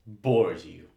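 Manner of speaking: hushed and incredulous; whispered. Acted. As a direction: breathe it out in disbelief. Assistant repeats it under breath.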